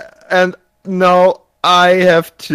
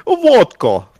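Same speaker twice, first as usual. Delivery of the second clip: mock Russian vodka; 5 semitones higher than usual. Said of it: "You never once referenced vodka".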